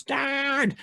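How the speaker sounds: shouted cry. Acted. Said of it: "Male youth shouts".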